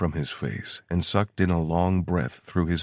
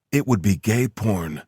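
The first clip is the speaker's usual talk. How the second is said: deeply hurt; 4 semitones higher, 5 dB louder than usual. A narrator's reading. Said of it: "sounding deeply hurt".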